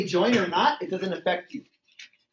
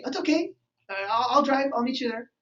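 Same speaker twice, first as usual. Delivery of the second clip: higher, softening reassurance, acted; lovey-dovey partner; 4 semitones higher than usual. New partner offering to drive over, playfully lovey-dovey. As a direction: play the all-too-willing sweetheart.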